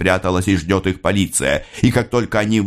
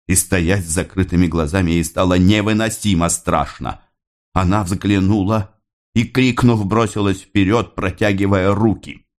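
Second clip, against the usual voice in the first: plain reading voice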